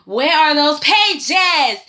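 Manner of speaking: very slow, dragged-out demand; impatient Victor. Retold or imitated. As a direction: stretch each word like an annoyed Victor. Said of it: "Victor's just like".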